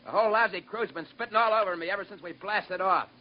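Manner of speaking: defiant anger. Acted. Engineer defies the captain angrily.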